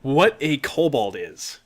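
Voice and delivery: real laughter breaking into the words; laughing through it. Real, not acted. GM explaining kobolds to the player, laughing. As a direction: explain while cracking up.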